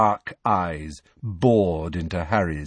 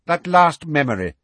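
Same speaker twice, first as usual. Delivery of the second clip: Snape voice; 7 semitones higher, 6 dB louder than usual. A narrator's reading.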